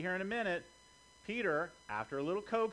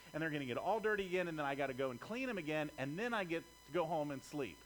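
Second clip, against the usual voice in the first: grumbling Peter. Retold or imitated. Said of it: "think of Peter thinking".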